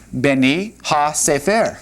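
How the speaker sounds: "beni ha sefer" with the stress on "sefer"; Hebrew word stress. Shown as a demonstration. Teacher shows students the accent in "beni ha sefer". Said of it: "the accent right there".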